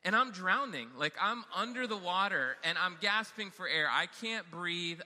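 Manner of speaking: storyteller milking the panic; dramatic retelling. Retold or imitated. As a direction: play up the near-drowning. Describes nearly drowning.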